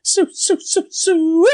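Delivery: high, sing-song call across the campground; mock calling out. Friend imitating Fergie calling for a woman, high mock call. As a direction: call the name out high and drawn. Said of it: "you can hear him going".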